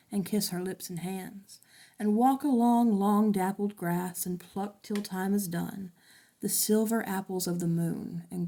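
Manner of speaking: poem reading. Acted. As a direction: read it like an old ballad, gently. Teacher reads a ballad aloud.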